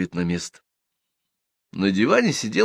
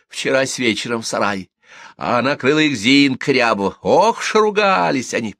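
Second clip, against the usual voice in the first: higher, rising relish in the tale; excited gossip; 5 semitones higher, 3 dB louder than usual. A narrator's reading. Gossip tells women who caught the pair, excited. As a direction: build to the quarrel with relish.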